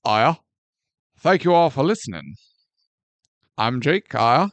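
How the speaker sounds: low, rising "Oh, yeah?"; deep catchphrase. Pretend. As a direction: drop the voice for "Oh, yeah?".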